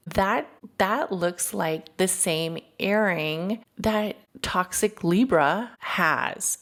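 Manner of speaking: slow, deliberate retelling of a pointed comment; pointed remark. Retold or imitated. Friend remarking on the rival's earring for all to hear, slow and pointed. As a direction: stretch it out so the rival overhears.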